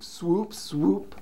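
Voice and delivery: ordinary delivery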